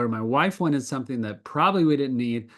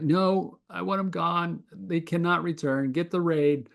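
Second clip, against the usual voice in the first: lightly imitating the wife, higher and firm; mock stern demand, pitched up; wife insisting; 6 semitones higher than usual. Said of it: "and she's like".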